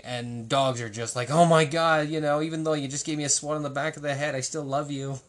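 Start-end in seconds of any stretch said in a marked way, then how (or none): 1.3-5.2 a gushing dog, "Oh my God" loud, then rushed and fast; hammed-up loyal dog, bursting out then rattling on; adoring dog voice. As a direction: play the devoted dog who forgives everything.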